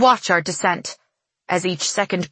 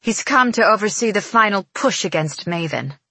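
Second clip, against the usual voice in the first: scornful, slightly raised voice; sneering; 3 semitones higher than usual. Acted. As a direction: spit out the news with contempt. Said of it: "Evangeline sneers".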